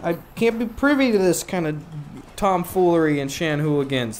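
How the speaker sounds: mock-prim Oscar refusing; prissy Oscar. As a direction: sniff at the tomfoolery. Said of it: "That's what he's saying".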